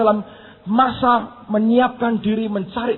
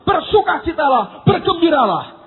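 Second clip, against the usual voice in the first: rousing command; 5 semitones higher, 4 dB louder than usual. Acted. Quotes David commanding his own soul.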